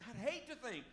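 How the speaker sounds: impassioned preaching. Real, not acted. Preacher urging the church not to live empty, impassioned preaching. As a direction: press the point home with rising force.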